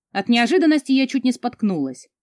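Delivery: usual speaking voice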